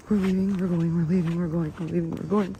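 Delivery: anxious repeated mantra; panicked repeating. Real, not acted. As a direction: talk yourself out of there. Fleeing the creature.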